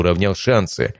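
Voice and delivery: ordinary delivery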